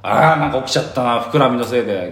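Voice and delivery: proudly complaining about his muscles; smug mock annoyance. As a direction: pretend to be bothered but show off. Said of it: "どういう態度なの、それ".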